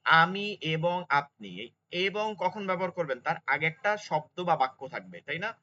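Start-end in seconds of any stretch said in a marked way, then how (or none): 0.0-1.5 slow example. Shown as a demonstration. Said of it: "আপনি যেমন বলবেন".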